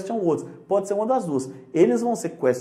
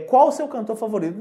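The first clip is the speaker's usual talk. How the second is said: quoted question; 3 semitones higher, faster than usual. Shown as a demonstration. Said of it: "pergunta assim".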